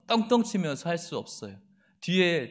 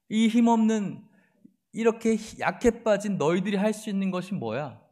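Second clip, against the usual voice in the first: scornful enemy voice, taunting; mocking taunt; 3 semitones higher than usual. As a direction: jeer at them like a bully. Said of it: "라고 비웃는 거예요".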